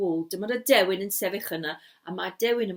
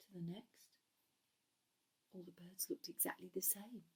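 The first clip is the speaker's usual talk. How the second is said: hushed, uncertain whisper; puzzled whisper; 4 semitones lower, 19 dB quieter than usual. A narrator's reading. Storyteller whispers as Gareth studies the three seagulls. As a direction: peer from bird to bird.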